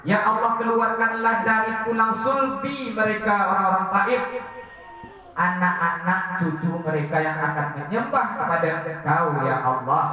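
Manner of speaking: earnest prayer. Acted. Prophet's prayer repeated.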